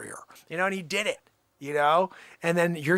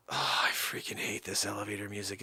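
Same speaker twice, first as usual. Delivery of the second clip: whisper; 12 semitones lower, 11 dB quieter than usual. Real, not acted. Annoyed aside about hold music.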